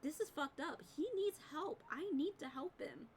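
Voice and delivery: a hammed-up urgent cry for help; urgent outburst. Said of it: "And she's like".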